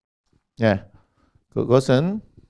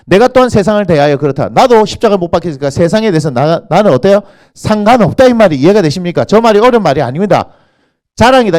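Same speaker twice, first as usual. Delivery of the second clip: loud, forceful sermon delivery; impassioned preaching; 4 semitones higher, 6 dB louder than usual. Real, not acted. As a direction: drive the point home to the congregation.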